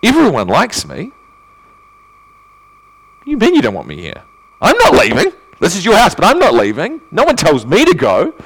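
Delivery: mock-offended, rising to a high pitched protest; indignant ego. A rejected guest's ego protests at being sent away, mock indignant. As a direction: play the wounded, puffed-up ego. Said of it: "your ego would just rise up and say".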